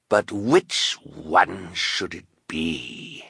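lightly voiced scheming villain; menacing villain. Count Olaf creeping toward the Baudelaires, menacing. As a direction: toy with your victims.

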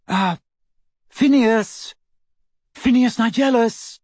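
loud, high call. A narrator's reading. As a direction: call into the portrait. Calling to portrait.

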